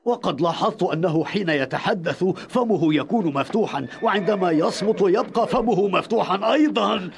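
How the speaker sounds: chuckling through the words; laughing. Acted. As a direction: laugh while mocking him. Mocking the man's open mouth. (يضحك ساخرا)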